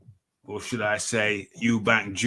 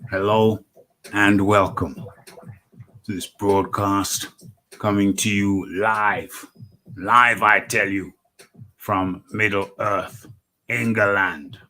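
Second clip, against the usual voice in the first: radio announcer; 6 dB louder, slower than usual. Acted. Radio host opening broadcast.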